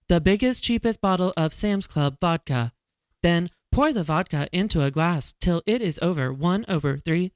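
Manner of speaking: robotic text-to-speech read. Shown as a demonstration. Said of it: "So I'm gonna read it like that".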